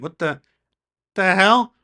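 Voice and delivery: high, loud outraged protest, slowed; retold indignant yell. Driver yelling at deputies who pulled him over, loud and outraged. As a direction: shout at the cops like it's happening again.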